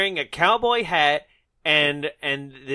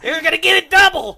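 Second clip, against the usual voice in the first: high, loud, quick holler breaking into laughter; mock lawman's threat; 13 semitones higher, 10 dB louder, faster than usual. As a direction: yell a hammed-up threat at the bandit. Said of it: "literally chasing, uh, the bandit around".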